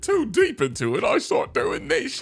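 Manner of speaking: high girly cartoon voice; Amy voice. Shown as a demonstration. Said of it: "she talks like this".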